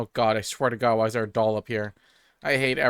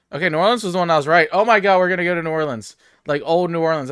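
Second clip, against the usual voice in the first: excited; 4 semitones higher, 5 dB louder, faster than usual. Real, not acted. Guess confirmed, excited.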